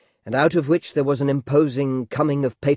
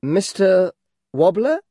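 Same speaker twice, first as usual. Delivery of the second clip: insistent suitor; 6 semitones higher, 5 dB louder, slower than usual. A narrator's reading. Suitor insists, fourth time.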